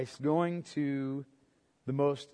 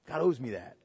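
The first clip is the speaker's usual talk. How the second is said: mock entitled voice, higher and louder; entitled believer; 9 semitones higher, 12 dB louder than usual. Preacher mimicking a self-righteous churchgoer, hammed-up whine. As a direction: play the believer who thinks God owes him. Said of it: "and you thought God owed you".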